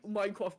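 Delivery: "Minecraft" slurred toward "Mine-kwaft"; mispronounced Minecraft. Real, not acted. Co-host tripping over the game's name, "Minecraft" as "Mine-kwaft". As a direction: say "Minecraft" with the r softened to a w. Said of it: "Did you say Minecraft?".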